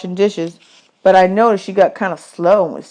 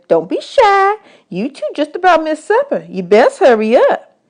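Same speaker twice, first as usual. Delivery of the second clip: higher, mock-grand woman's voice; woman at camp; 9 semitones higher than usual. Camp woman teasing boys about their tin china, higher. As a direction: serve it like fine china, teasing.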